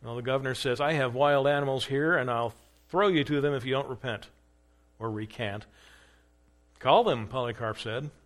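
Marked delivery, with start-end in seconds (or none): 0.8-5.6 threatening governor. Acted. Governor threatens with wild animals. 6.8-7.3 loud, bold dare; defiant challenge. Acted. Polycarp defies the governor.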